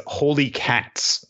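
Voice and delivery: slow, high mock amazement; stunned. Girl seeing the bonds broken, slow amazed gasp. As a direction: draw it out, gaping. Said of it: "To which she says".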